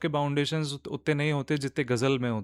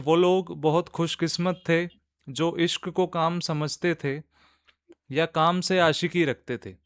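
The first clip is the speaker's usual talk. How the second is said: measured nazm recital with pauses; poetry recitation. Acted. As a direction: open the poem deliberately, phrase by phrase. तो शुरू करते हैं.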